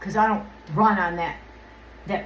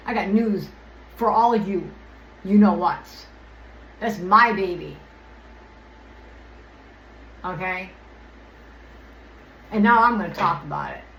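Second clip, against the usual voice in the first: irritated defiance. Real, not acted. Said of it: "I'm just a little irritated by this".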